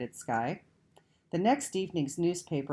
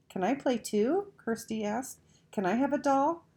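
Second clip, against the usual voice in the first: put-on eager child; 9 semitones higher than usual. A narrator's reading. Little sister begging to join.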